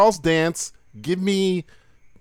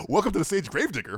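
strip club announcer; 4 semitones higher, 3 dB quieter than usual. Acted. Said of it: "announcing in a strip club".

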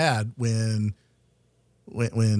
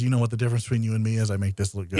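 quoted movie line; 4 semitones lower, much faster than usual. Retold or imitated.

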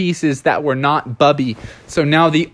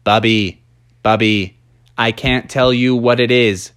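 a hint of a deep robot-bear coach; wise Techno Bear; 4 semitones lower than usual. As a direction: brother urging Bubby from the stands, low and earnest. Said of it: "Techno Bear said".

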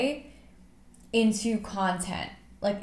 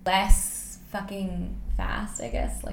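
measured, drawn-out delivery; slow right down, placing words with care; deliberately slower; slower than usual. Real, not acted. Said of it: "I'm trying to speak slower".

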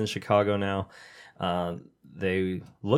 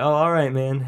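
higher, louder grudging concession; mock giving in; 5 semitones higher, 4 dB louder than usual. Retelling a sketch, higher grudging coworker voice. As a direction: cave in with a shrug.

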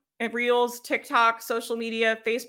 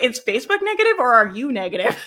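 louder, breaking into laughter; amused challenge; 2 semitones higher, 6 dB louder than usual. Real, not acted. Coach teasing a complaining relative, laughing. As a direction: pose it loudly, tickled by the question. Laughing at her own retort.

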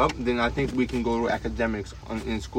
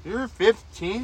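surprised; 8 semitones higher, much slower than usual. Real, not acted. Friend admits being fifteen.

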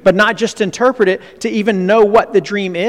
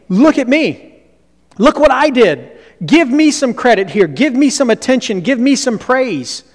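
show-off bragging; 7 semitones higher, 4 dB louder than usual. Acted. Preacher voices attention-seeking Arioch.

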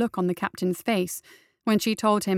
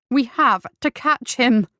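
voice shaking; 4 semitones higher, 6 dB louder, slower than usual. Acted. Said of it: "Her voice shook".

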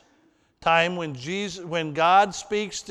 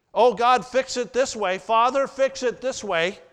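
mock demanding prayer; 5 semitones higher, 4 dB louder than usual.

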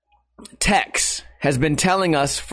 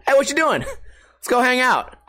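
casual friend voice; 7 semitones higher than usual. Retold or imitated. Friend's late-night call quoted.

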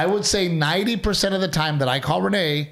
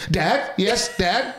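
lightly voiced fawning daughter, a touch higher; mock eager daughter; 5 semitones higher, much slower than usual. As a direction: mimic the wife jumping to answer her dad. Husband mocks wife answering dad.

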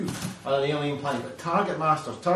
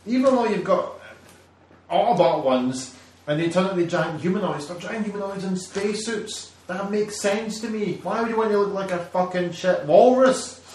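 mock rant; 5 semitones higher, 4 dB louder than usual. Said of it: "And you go".

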